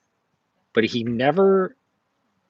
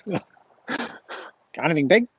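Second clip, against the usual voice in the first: slow, higher, drawn-out mock question; mocking the comic guy; 6 semitones higher, much slower than usual. Vendor slowly mimicking the collector's question. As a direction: stretch it out like the pesky buyer.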